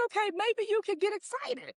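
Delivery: very high, squeaky self-talk; giddy excitement. Retold or imitated. Telling herself after the family's screaming, giddy excitement. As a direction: let excitement creep in, high and light.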